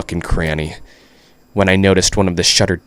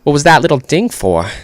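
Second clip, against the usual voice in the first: higher, clumsy Southern accent attempt; bad Southern accent; 7 semitones higher, 4 dB louder than usual. Reader voices a character asking about a ding, bad Southern accent. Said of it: "how do you even do a southern accent".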